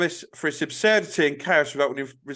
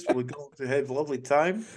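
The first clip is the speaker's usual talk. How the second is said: mock Dutch accent; English with a put-on Dutch accent; Steve McLaren. Retelling England manager's interview in Holland, mock Dutch accent. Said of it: "speaking English with a Dutch accent".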